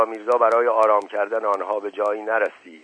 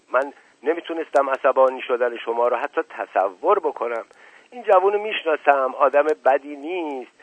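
soothing, coaxing tone with the odd higher lift; sweet-talking; 4 semitones higher, 3 dB louder than usual. Acted. Asadollah Mirza coaxes the Sardar gently, a light soothing tone. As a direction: flatter him into calming down. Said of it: "لحن صحبت اسدالله میرزا با سردار عوض شد".

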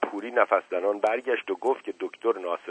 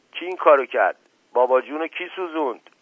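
higher, louder panicked shriek; 5 semitones higher, 4 dB louder than usual. A narrator's reading. Son panicking over his burned father, shrill loud cry.

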